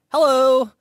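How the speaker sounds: high, loud comic hello; talking body part. Retold or imitated. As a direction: pipe up eagerly in a silly high voice. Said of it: "my dick was like".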